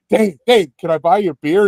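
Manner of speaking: high-pitched fan's hail; retold eager call. Fan catching the singer at the bar, eager calling. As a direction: call the name eagerly, then offer.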